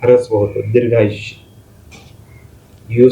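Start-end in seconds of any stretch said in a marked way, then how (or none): 0.7-1.4 दीर्घायुष्य said carefully, syllable by syllable; careful pronunciation. Shown as a demonstration. Teacher repeats the word for students, careful. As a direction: model दीर्घायुष्य clearly for the class. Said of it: "यूचा उच्चार तुम्ही उच्चार करून बघा".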